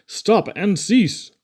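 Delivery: slow, high hammed-up order to stop; shouting. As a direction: bellow it like an angry cop. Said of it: "policemen shouting".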